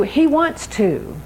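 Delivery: slow, "He" pressed hard: He wants to; stress on HE. Shown as a demonstration. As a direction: lean on "He" and let the words fall slowly. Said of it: "if you get nothing else today".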